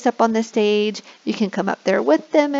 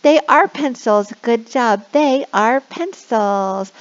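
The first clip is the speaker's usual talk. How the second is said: encouraging praise; 3 semitones higher, 3 dB louder, slower than usual. Shown as a demonstration. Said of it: "And you can say".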